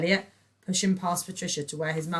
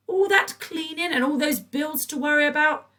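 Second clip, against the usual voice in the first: sweet; 12 semitones higher, 9 dB louder than usual. A narrator's reading. Patricia sweet.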